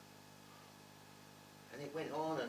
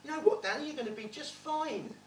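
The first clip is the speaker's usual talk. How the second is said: mild higher, gentle headmaster voice; kindly headmaster; 8 semitones higher, 6 dB louder than usual. Retold or imitated. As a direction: reassure the boy like a big kind headmaster. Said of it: "big hug, said".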